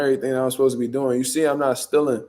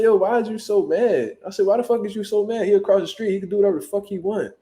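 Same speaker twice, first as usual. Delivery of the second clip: higher-pitched retold challenge; mock protest; 6 semitones higher than usual. Driver defends stepdad to officer, mock protest. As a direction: argue back on his behalf, pitch up.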